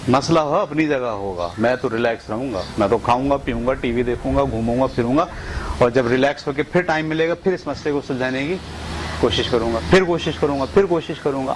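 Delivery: low, easy, relaxed reassurance to yourself; calm self-talk. Shown as a demonstration. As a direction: talk yourself down gently, unhurried. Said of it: "تو آپ بولیں". (پرسکون، دھیمی آواز میں خود کو تسلی)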